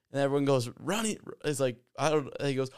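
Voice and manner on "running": high eager shout-out; team answer. Retold or imitated. Players answering the coach, high and eager.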